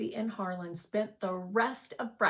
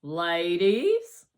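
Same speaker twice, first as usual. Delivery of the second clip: cool as a movie star; 10 dB louder than usual. Acted. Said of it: "as cool as a movie star".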